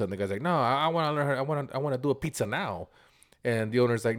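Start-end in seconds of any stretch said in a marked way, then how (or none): 0.4-2.9 higher-pitched mock insistence; insistent retold protest. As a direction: push back as the stubborn customer. Customer insisting in retold argument.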